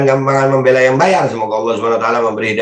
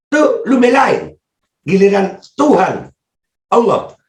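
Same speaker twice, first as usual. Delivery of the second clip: sarcastic; 7 semitones higher, slower than usual. Real, not acted. Sarcastic high slow jab.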